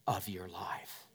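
hushed, breathy close; a whispered ending to the promise. Acted. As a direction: drop it to a whisper. Soft close of sermon line.

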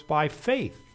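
"by faith" set apart, FAITH falling at the end; stress on BY FAITH. Shown as a demonstration. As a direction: land firmly on "by faith". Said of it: "the emphasis is on the words".

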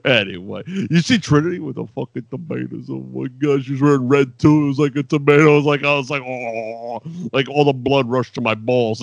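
a lightly voiced wrestling tough guy, close to his own voice; Taz impression. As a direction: ramble like a brash wrestler cutting a promo. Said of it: "No, Taz, thank you for that".

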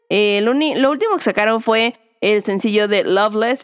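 ordinary delivery

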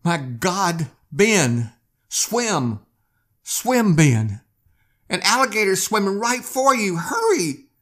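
high, loud panicked scream; screaming in terror. Acted. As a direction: shriek a warning to her husband, terrified.

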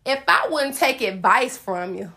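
a touch of pulpit preaching, laughing; mock preaching. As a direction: preach it half-joking. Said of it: "like I'm preaching this thing".

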